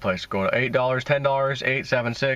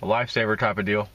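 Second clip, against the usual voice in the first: talking around candy. Real, not acted. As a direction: mouth full of hard candy. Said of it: "Might sound like I got marbles in my mouth".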